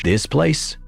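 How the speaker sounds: high, lilting echo with a rising end; playfully amused. A narrator's reading. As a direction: toss the question back, amused. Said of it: "his tone playfully amused".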